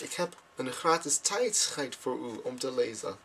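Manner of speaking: tijdschrift said as tijd-schijt, slow and careful; repeated slip. Retold or imitated. Repeating the pitch to the man, tijdschrift mispronounced as tijd-schijt. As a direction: slowly repeat it with tijdschrift ending like kite. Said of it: "But I actually said free time".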